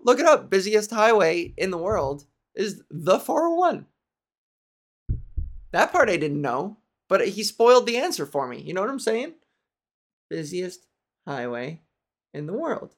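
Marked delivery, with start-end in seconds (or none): 0.0-0.5 higher, pushy little jab; mock smug taunt. Mocking the friend who spoiled it, a pushy jab. 10.3-12.9 hushed mock awe. Teasing the friend's big reveal, hushed mock awe. Savouring the spoiled fact.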